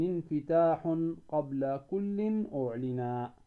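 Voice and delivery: slow, measured recitation of verse; slow chanted recitation of a teaching poem. Acted. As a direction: recite each verse slowly and evenly.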